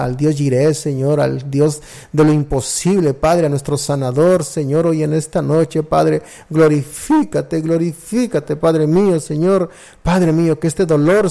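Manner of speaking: pleading healing prayer to the Father, steady and earnest; fervent prayer. Acted. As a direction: call on God for the sick husband with rising fervour.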